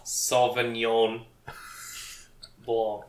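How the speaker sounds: slow Sauvignon, a long pause, then Blanc; correcting pronunciation. Shown as a demonstration. Correcting a friend's grape names, Sauvignon ... Blanc spaced out slowly. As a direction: Sauvignon as "SAH-vin-yawn", Blanc ending without a hard c. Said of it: "I'm gonna correct you".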